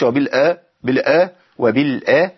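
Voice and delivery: وبالآخرة with a vowel put on the lam; wrong pronunciation. Shown as a demonstration. Teacher showing students the wrong وبالآخرة, lam voweled. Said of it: "ما أقولش".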